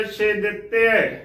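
ਛੇ ਦਿੱਤੇ with short i and doubled t; ਛੇ ਦਿੱਤੇ as "she dit-te"; split as "chhe ditte". Shown as a demonstration. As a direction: say ਛੇ apart, then ਦਿੱਤੇ. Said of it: "ਇਸ ਦਾ ਸ਼ੁੱਧ ਉਚਾਰਨ ਹੋਵੇਗਾ".

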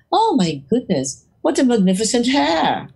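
mock posh British. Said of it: "London office namin".

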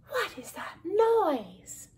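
high, drawn-out complaint; slow, rising whine of a sleepless mouse; bothered mouse. A narrator's reading.

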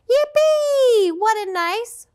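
very high gleeful squeal; excited ant. Acted. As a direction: squeal with delight. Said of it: "cried the ant".

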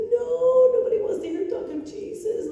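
high-pitched pleading no; high protest. Retold or imitated. To God asking her to speak, a high pleading protest. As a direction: squeak out a reluctant refusal.

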